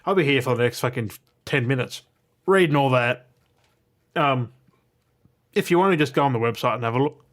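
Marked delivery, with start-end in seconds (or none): 4.1-7.2 hiccups. Real, not acted. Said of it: "got the hiccups".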